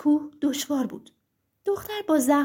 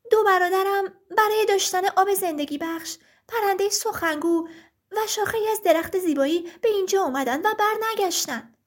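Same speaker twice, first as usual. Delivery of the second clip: a lightly voiced sister, slightly higher pitch; earnest girl explaining to a giant; worried sister; 4 semitones higher than usual. Sister's voice in the story. (با صدای کمی زیرترِ خواهر نگران)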